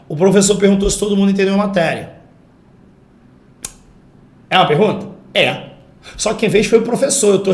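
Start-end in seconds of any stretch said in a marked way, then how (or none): 0.1-2.1 quick, higher, even line falling at "matéria"; statement intonation. Shown as a demonstration. Teacher proves it is no question, declarative falling tone. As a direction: reel it off evenly, drop on "matéria". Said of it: "Olha a entonação".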